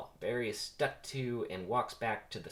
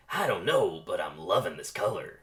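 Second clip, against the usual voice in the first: Jackson's voice; 3 semitones lower, 5 dB louder than usual. Acted. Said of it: "will be Jackson's voice".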